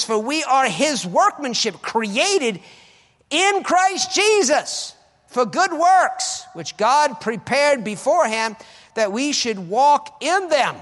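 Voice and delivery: loud, high, slow reading of scripture; preached scripture. Acted. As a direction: proclaim the verse to the crowd.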